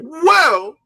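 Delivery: high put-on buddy voice; Lord Addict voice. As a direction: stretch out a high mock drawl. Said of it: "in my Addict voice".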